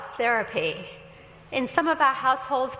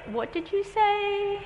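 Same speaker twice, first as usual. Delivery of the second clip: slow, high, baffled question; puzzled; 8 semitones higher, much slower than usual. Retold or imitated. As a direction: ask it bewildered, drawn out. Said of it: "He looked at me like".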